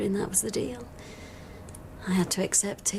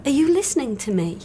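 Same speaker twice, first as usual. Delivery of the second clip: higher-pitched, exasperated challenge; frustrated, raised pitch; indignant; 6 semitones higher, 4 dB louder than usual. Acted. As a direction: demand attention from someone who isn't listening. Frustrated patient challenges inattentive doctor.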